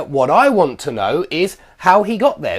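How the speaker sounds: "how he got there" emphasised, falling at the end; stress on final part. Shown as a demonstration. Teacher demonstrating a what cleft, stressing "how he got there". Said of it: "It puts emphasis here on the blue part".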